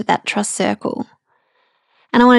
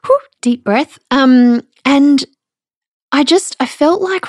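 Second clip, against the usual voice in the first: holding back tears; 5 semitones higher than usual. Real, not acted. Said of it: "I promise I wasn't gonna cry".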